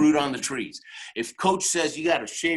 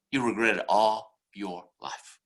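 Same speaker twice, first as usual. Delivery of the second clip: slow, lower-pitched and deliberate; weighty warning; 4 semitones lower than usual. Real, not acted. Speaker warning audience against quitting, weighty and slow. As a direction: space out the words heavily. First take, driving the warning home.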